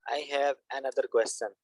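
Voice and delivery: slow typing dictation. Shown as a demonstration. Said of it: "ये मैं यहाँ पे लिख रहा हूँ".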